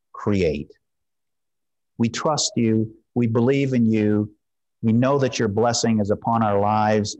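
hushed pastoral prayer leading the congregation; prayer of dedication. Acted. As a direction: pray gently over the offering.

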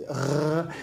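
R rasped in the throat; French-style R sound. Shown as a demonstration. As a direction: demonstrate the French guttural R. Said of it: "como en francés es".

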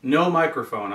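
calling out from far off; projecting to a distant camera; yelling across the room. Real, not acted. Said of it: "I'm yelling across the room to it".

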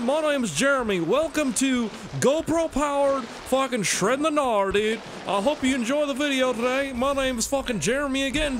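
high, loud surfer-bro voice, dragging the dudes; Jeremy bro voice. Acted. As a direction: play a stoked high-pitched bro vlogger introducing himself. Jeremy bro persona intro.

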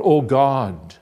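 loud exclamation to God; crying out. Acted. Non-believer in tragedy cries to God, loud outcry. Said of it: "they may cry out".

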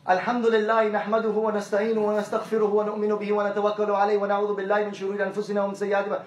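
put-on fast recital in Arabic, as the boy did; rapid khutbah recitation. Imam quoting the boy's memorized khutbah, fast recitation. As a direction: rattle off the Arabic opening quickly, like a memorized recital.

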